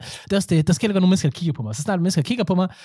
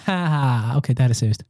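mock laugh fading into a lower, serious realization; grin der dør ud; 5 semitones lower than usual. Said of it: "så stopper du stille og roligt med at grine". (latter der forsigtigt dør ud)

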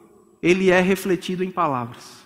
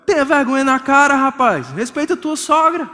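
scolding; 4 semitones higher than usual. Real, not acted. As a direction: scold the man from the pulpit. Preacher scolds the husband.

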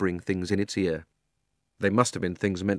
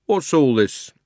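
higher, official demand; stern policeman; 5 semitones higher, 4 dB louder, slower than usual. A narrator's reading. Policeman questioning the old gentleman, raised official voice. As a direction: demand an explanation.

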